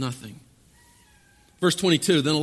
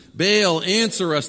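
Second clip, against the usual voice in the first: raised voice calling on a god; mild acted shout; 4 semitones higher, 5 dB louder, slower than usual. Prophets calling on Baal till noon, mild acted shout. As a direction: call out, louder on the name. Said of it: "they shouted".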